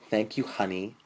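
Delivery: "honey" leaned on pointedly; thanks with a pointed "honey"; emphasis on HONEY. A narrator's reading. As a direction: put the weight on the last word, "honey". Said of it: "putting emphasis on the last word".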